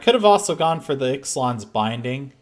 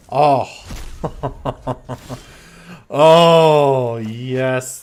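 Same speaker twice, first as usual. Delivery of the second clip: gleeful relief; 8 dB louder, much slower than usual. Real, not acted. His counter works.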